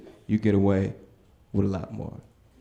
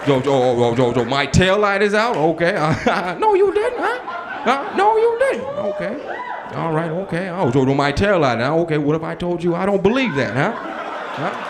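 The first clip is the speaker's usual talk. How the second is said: Denzel impression; 5 semitones higher than usual. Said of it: "my best Denzel impression".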